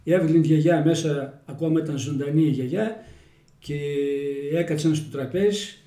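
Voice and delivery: Little Red Riding Hood told in broad Kozani Greek dialect; folksy village storyteller in Kozani dialect. Shown as a demonstration. Telling a fairy tale to the interviewer, in Kozani dialect. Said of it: "Στα κοζανίτικα".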